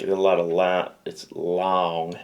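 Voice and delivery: lightly imitated Southern American drawl; Southern American accent. Australian host mimicking long American speech, Southern American accent. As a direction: draw the vowels out in mock Southern American. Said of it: "Every American to me is from the South".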